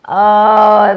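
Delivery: long, loud "oh" of revulsion; queasy groan. Real, not acted. Co-host reacting to talk of bugs in the seeds, queasy groan. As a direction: groan it out loudly, sickened. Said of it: "that kinda makes me sick".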